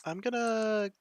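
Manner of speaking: talking while drinking; words around a sip; while sipping a drink. Real, not acted. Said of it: "you can hear me drinking".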